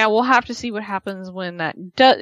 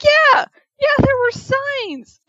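much higher, sheepish mock voice; sheepish husband; slower than usual. Husband admitting he misread the signs, squeaky sheepish mimic. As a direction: play the caught-out husband, squeaky and embarrassed. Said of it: "And he's like".

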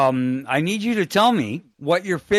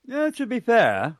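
slow, higher Letterkenny "to be fair", drawled; Letterkenny accent; 10 semitones higher than usual. Retold or imitated. Host quotes the Letterkenny catchphrase in a slow put-on rural Canadian accent. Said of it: "They talk a little bit like this".

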